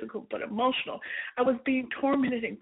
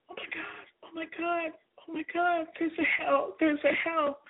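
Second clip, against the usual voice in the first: panicked, higher repeated exclamations; a touch of terror, voice rising; mild hysteria; 4 semitones higher than usual. Retold or imitated. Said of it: "I was hysterical".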